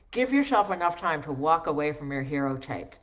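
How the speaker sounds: reading with a pencil clamped in the teeth; over-articulate around a pencil in the mouth. Shown as a demonstration. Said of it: "speak it as clearly as I possibly can with this pencil in my mouth".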